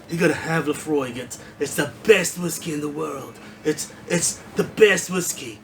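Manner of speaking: lightly voiced braggy Trump superlatives; Trump impression. Reviewer mimics Trump calling Laphroaig the best whiskey, hammed-up boast. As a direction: lean on best like it's the greatest ever. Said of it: "a good impression of Trump".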